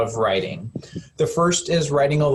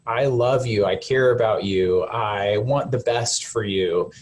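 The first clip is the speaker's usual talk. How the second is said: tender. Shown as a demonstration. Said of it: "To this child or to this animal".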